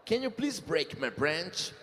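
slow, deliberate word-by-word English; slow literal English. Shown as a demonstration. Host reads a made-up English phrase slowly to a singer. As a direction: spell out each word slowly.

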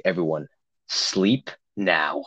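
low, measured mock-stern command; imitated stern order. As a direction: lay down the law like a counselor, pausing between words. Retold counselor ordering everyone to sleep.

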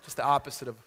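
preacher laughing at his adoption joke; laughing while talking. Real, not acted. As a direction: push the joke out through laughs.

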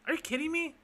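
sharp high outburst; furious can't-believe-it cry; outraged disbelief. Real, not acted. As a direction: shoot the pitch way up in disbelief. Outraged at the bank's advice.

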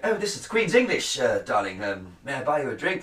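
lightly put-on Queen's English, courteous; a hint of an English gent offering a drink; mock posh accent. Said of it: "What is that accent".

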